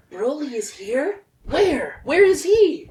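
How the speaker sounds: alarmed. Acted. Panicked character hears Broly.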